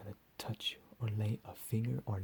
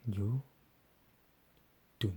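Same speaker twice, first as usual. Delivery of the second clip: sudden loud command; 6 dB louder than usual. Acted. Captor silencing his victim.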